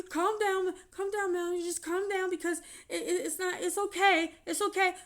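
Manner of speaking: lightly voiced soothing man, high and loud; hushing her, over and over; soothing manager. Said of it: "He's like".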